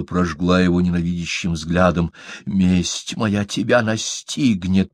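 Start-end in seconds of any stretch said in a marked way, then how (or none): 2.4-4.9 hissing. Acted. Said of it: "прошипела она".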